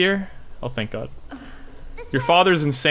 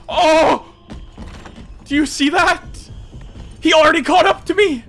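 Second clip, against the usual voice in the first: incredulous; 11 semitones higher than usual. Real, not acted. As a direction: exclaim in agitated disbelief. Enemy catches up to him.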